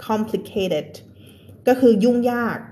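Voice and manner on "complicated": complicated with "ted" as its own syllable; extra -ed syllable. Shown as a demonstration. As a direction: sound out the final -ed of complicated. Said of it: "เพราะฉะนั้นเพิ่มอีกหนึ่งพยางค์". (อ่าน complicated เพิ่มพยางค์ ted ท้ายคำ)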